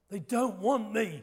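slow, emphatic retold statement; forceful and deliberate. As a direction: repeat the quote firmly, stretching every word. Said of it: "he said it with force".

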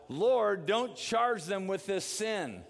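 loud, high, slow cry to the Lord; yelling out. Retold or imitated. Dying Stephen yells out his plea for his stoners, loud and slow. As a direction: call out to God with your last strength. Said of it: "it says he yells out".

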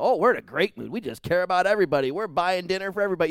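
mock giddy good mood. Preacher mimicking a fickle person in a great mood, giddy and fast.

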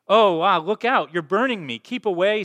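high, loud frightened yelps; panicked cry. Acted. Ghost shrinks from the flaming angel, panicked loud cry. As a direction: pull back from the burning hands in alarm.

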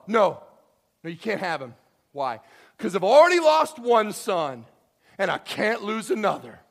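loud, insistent father saying no; stubborn refusal. Retold or imitated. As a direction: plant your feet and refuse loudly. Jacob refuses to send Benjamin.

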